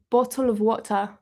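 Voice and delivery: restrained British accent, not caricatured; understated attempt at British pronunciation. Shown as a demonstration. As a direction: say it in a careful, believable British accent. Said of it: "it's probably more accurate to be like".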